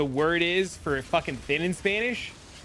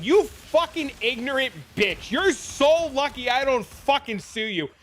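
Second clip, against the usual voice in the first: mom's fury; 8 semitones higher than usual. Retold or imitated. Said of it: "my mom was like".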